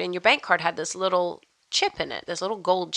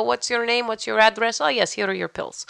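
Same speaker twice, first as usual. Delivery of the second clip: lightly imitated Russian accent; brisk pharmacist with a hint of Russian; accidental Russian accent; 3 semitones higher than usual. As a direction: Dutch impression slipping into Russian. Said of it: "That was very Russian".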